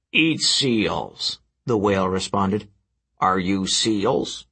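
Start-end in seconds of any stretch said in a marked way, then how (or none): 0.1-1.4 whale voice. Acted. Whale answers Percy. 3.2-4.5 whale voice. Acted. Whale asks, slowed.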